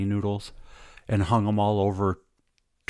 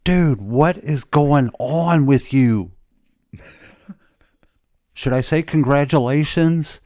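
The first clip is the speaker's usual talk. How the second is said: excited friend; 6 semitones higher, 6 dB louder, slower than usual. Retold or imitated. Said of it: "He's like".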